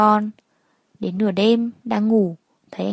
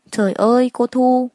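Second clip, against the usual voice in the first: shocked cry; 3 semitones higher, 5 dB louder than usual. Acted. Maid shocked at beaten Thu.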